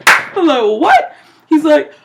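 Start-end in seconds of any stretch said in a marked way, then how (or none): 0.8-1.2 high, loud incredulous reply; high-pitched astonished exclamation; mock disbelief. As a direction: act out being taken aback. Acts own disbelief at man's fear.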